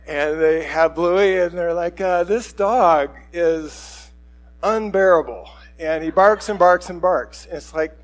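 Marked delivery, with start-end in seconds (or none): 2.0-7.4 slow, loud, emphatic complaint; mock exasperation. New owners returning a barking dog, acted exasperation. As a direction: imitate someone at the end of their patience.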